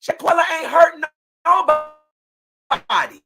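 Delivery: angry shout. Real, not acted. Mother confronting her daughter's killers.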